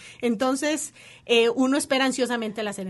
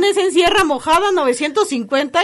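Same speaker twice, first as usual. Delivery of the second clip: retold address; 7 semitones higher, 11 dB louder than usual. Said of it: "cuando me dijeron".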